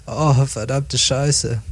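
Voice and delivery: mildly startled, drawn-out swearing; understated fright on a slow oath; startled cry. Acted. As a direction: swear slowly, with a touch of shock. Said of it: "rief Daisy erschrocken".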